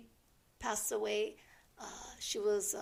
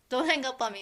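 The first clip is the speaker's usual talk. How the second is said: urgent plea; 3 semitones higher, 8 dB louder, faster than usual. Retold or imitated. Retold plea to friend on phone.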